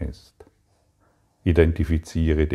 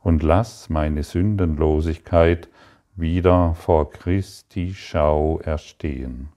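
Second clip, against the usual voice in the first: earnest, lifted prayer voice. Acted. Teacher prays aloud to the Father, earnest and heartfelt. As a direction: pray it with devotion to the Father.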